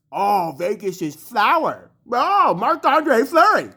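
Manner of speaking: drawn-out mock fan gushing; slow, hammed-up fan swooning over the goalie; mock adoring fan. Rant host mimics fans of Marc-Andre Fleury, mock gushing.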